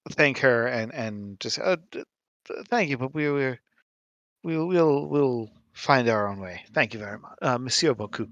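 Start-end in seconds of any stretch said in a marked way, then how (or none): 1.6-8.3 stammered, mildly flustered polite thanks; slightly flustered. Acted. Auclerc thanks her and declines help, slightly flustered. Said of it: "slightly flusteredly".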